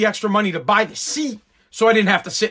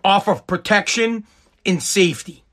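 mocking outraged snowflakes; 3 semitones lower than usual. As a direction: mimic the offended crowd, dragging it out. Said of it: "They bitched them out and said".

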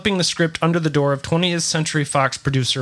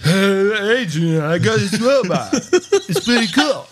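mumbled Stallone impression; slurred Rocky voice, mouth full; marbles in mouth; 5 semitones higher, slower than usual. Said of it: "I got marble in my mouth".

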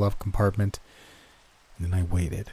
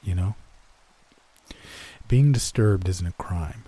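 cold statement; 4 dB quieter than usual. Acted. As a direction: say it flatly, bent close. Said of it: "coldly stated".

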